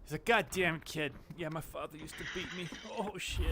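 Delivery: mock Boston accent, lightly done; Boston fat kid impression. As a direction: imitate a Boston kid's accent. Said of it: "I'm this fat kid".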